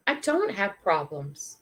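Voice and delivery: slow, measured realization; sober realization. Retold or imitated. Storyteller realizing her own troubles are small, sober and slow. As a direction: let it land slowly. Realization retold, contrasted with that dude.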